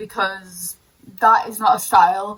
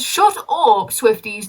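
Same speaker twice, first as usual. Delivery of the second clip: mock snap; slower than usual. Telling off the Swifties.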